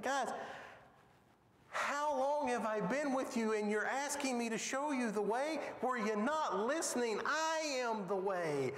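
as Jesus, amazed they still don't get it; incredulous. Retold or imitated. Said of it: "hear the incredulity in his voice".

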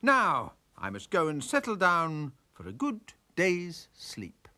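sleepy jay. Acted.

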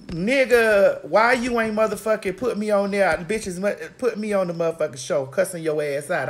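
imitating a friend cussing her out; hammed-up furious phone rant; mock angry call. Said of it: "that bitch called me and said".

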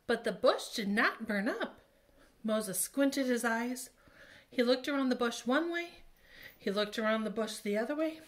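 put-on lively read-aloud for children; storytelling to kids. A narrator's reading. Teacher reading the Bible story to children, animated. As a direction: tell it like a picture book.

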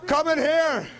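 wrestling promo. Acted. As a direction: hype the home crowd like a wrestler. Wrestler cutting promo to crowd.

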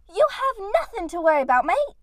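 brisk Australian attempt with a high lift at the end; attempted Australian accent. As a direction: try an Australian accent, not quite landing it. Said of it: "trying to do that dumb accent".

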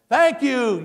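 loud, high, upbeat thanks; big high-energy rally thanks; showing energy. Shown as a demonstration. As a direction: thank a crowd like a beaming politician. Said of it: "you're just showing energy".

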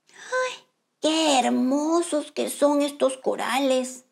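soft slow wonder; soft admiring crab. Acted. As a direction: sigh at the lovely corals.

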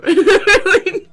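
put-on high shy girl voice. Voicing shy girl character.

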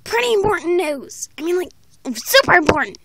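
a hint of a cartoon pony; Rainbow Dash voice. Kid announcing news as Rainbow Dash. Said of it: "it's me, Rainbow Dash".

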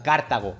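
Cartago said as a demo with one syllable punched; stress shifted in Cartago. Shown as a demonstration. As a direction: punch out "Cartago" to show where its accent falls. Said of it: "si lo tiraras en plan".

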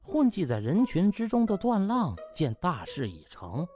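plain reading voice

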